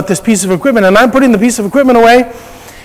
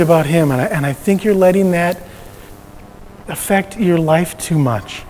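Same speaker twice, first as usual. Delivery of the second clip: gentle, softer voice of a caring wife; loving concern; 6 dB quieter than usual. Retold or imitated. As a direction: voice the wife's tender worry, quietly. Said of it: "to lovingly voice her concern".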